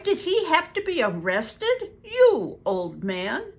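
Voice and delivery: loud, high, slow indignant shout; cried out. A narrator's reading. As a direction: demand it loudly in outrage. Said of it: "he cried".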